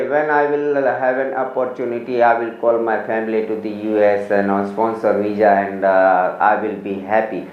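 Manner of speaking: happy words in a low, sinking voice; mock downcast delivery. Shown as a demonstration. Teacher mimicking a candidate whose look belies the words, mock downcast. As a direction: sound mildly glum while claiming happiness. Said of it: "आपके face से एक sad moment express".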